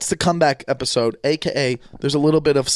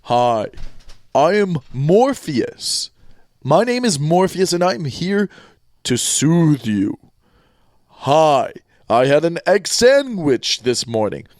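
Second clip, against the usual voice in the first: slow, drawn-out solemn Morpheus; Morpheus impression; slower than usual. Host doing Morpheus to soothe listeners, slow. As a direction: stretch the words slowly and gravely. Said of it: "If I was gonna do one".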